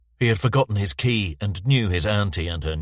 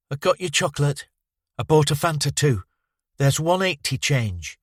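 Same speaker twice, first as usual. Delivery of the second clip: lightly voiced child, higher; proud little girl; 8 semitones higher than usual. Karen back from the shop telling Bowman, light child voice. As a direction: report back proudly like a kid.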